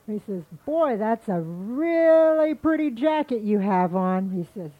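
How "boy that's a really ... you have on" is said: admiring, drawn-out and louder; flattering. Acted. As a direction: lay on the compliment, slowly. Rabbit flatters squirrel's jacket.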